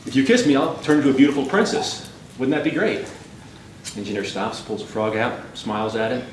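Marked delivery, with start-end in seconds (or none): 0.0-0.5 muffled voice. Acted. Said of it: "this muffled voice from inside his pocket". 0.5-3.0 lightly muffled, coaxing frog; calling from inside a pocket. Acted. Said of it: "this muffled voice from inside his pocket".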